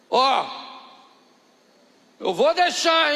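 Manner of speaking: mais alto e mais agudo, avisando; aviso do tio. Retold or imitated. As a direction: ceda mas ameace. Tio cede de má vontade. (o tio avisa a filha, alto e agudo)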